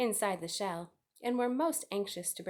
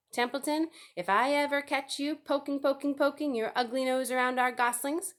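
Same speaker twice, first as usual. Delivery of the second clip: threatening; 6 semitones higher, 4 dB louder than usual. A narrator's reading. Gander threatens the rat.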